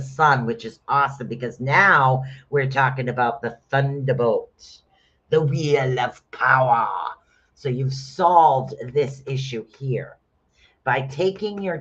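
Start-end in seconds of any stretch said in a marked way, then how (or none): 5.3-6.9 drawn-out, grand announcement; dramatic proclamation. Pretend. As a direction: stretch it out like a mighty proclamation. Mock-epic naming of the rune.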